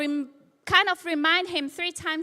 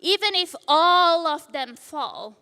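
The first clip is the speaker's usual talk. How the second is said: loud boast; 6 dB louder than usual. Retold or imitated. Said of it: "Peter goes loudly".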